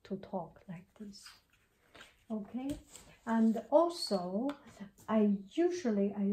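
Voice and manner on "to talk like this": whispered and much softer, close to the mic; close-mic soft talk. Shown as a demonstration. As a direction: murmur it right into the mic. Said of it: "So I hold it".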